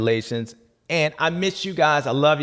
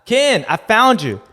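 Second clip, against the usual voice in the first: mock joyful reunion; 8 semitones higher, 7 dB louder, slower than usual. Greeting the dummy.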